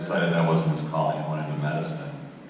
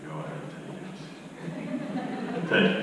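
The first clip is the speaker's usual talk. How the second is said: character's quote; 9 semitones higher, 5 dB quieter, slower than usual. Retold or imitated. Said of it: "and he said".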